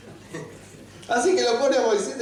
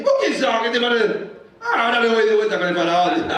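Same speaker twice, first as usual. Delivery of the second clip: loud, hammed-up huff; mock indignation; 4 dB louder than usual. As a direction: fire it back loud, as if affronted. Acts rebuff and Moses' huffy reply.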